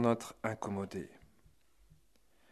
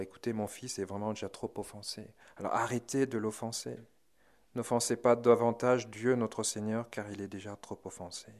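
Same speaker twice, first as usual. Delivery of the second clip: gentle mother; 2 semitones lower, 5 dB quieter than usual. Retold or imitated. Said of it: "vraiment la maman qui parle".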